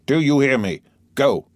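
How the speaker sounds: put-on loud, stern command to a child; father harshly sending his son away; harsh order. A narrator's reading. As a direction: bark the order so he jumps. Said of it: "so harshly".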